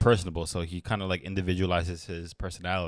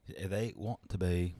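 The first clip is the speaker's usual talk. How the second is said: slow, softer mock English accent; imitated English accent; 5 dB quieter than usual. Co-host proving he heard an accent, slow English accent. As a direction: mimic it slowly in an English accent. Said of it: "that's probably English".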